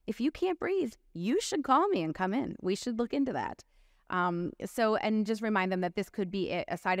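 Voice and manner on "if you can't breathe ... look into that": earnest warning to patient. Shown as a demonstration. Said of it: "it can't hurt to say".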